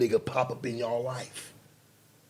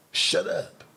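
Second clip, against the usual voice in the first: high shut up; 7 semitones higher than usual. Acted. Snapping at an imagined critic.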